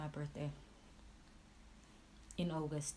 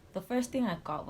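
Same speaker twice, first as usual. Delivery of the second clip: loud emphasis; 3 semitones higher, 6 dB louder than usual. Real, not acted. Telling viewers about the slap, said loudly. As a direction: punch the line out, louder.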